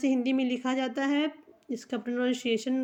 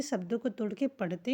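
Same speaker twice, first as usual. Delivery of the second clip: whispered aside; 4 semitones lower, 6 dB quieter, faster than usual. Real, not acted. Teacher aside, unvoiced.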